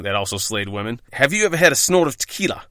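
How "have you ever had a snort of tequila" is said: higher-pitched, poorly attempted South African accent. Friend Daniel tempting him at the bar, rough South African accent. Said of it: "Daniel said in his South African accent that I can't do".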